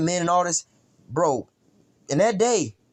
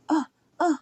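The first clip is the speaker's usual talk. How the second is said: imitated moans; 13 semitones higher than usual. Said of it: "you hear the moaning".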